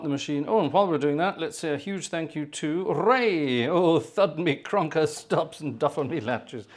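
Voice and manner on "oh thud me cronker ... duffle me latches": half-committed Bloodnok, slowly drawn out; slow first stab at a comic character voice, lightly done; Bloodnok first try. Acted. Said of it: "I have to do that in the right voice".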